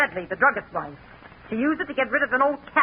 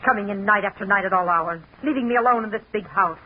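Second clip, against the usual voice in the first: bitter nagging; 4 semitones lower than usual. Acted. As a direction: drag out each grievance. Wife nagging husband home late.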